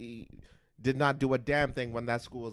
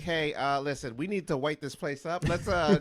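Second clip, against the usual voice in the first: high, loud scheming boss voice; mock scheming executive; 6 semitones higher, 6 dB louder than usual. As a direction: play a villainous studio boss. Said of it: "did they just like".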